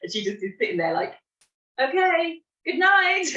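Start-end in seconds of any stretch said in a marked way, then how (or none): 1.8-3.2 imitating her daughter. Daughter replies calmly to outburst.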